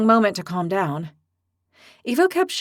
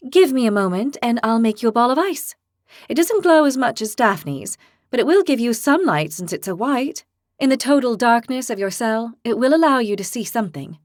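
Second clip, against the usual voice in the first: put-on fierce young heroine; 3 semitones higher, 3 dB louder than usual. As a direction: declare it like a hotheaded girl. Lily offers ice light.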